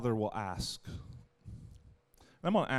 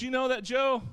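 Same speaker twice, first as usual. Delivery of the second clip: mock complaining about Joe, higher; a pastor playing a fed-up Jesus; voicing a disappointed Jesus; 5 semitones higher, 4 dB louder than usual. Jesus complaining to the angels about Joe, mock disappointed. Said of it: "and he says".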